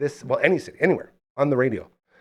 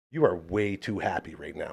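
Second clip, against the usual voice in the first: cranky, grumpy delivery; 6 semitones lower, 7 dB quieter than usual. Retelling what a man said as he walked out: imitating a scowling grumpy remark. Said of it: "with a scowl".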